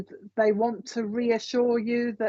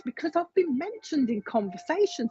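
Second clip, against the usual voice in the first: higher, lilting relayed surprise; mildly astonished retold quote; quite surprised; 6 semitones higher than usual. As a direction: imitate someone surprised to be talked about. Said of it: "he's quite surprised, this is how he's saying it".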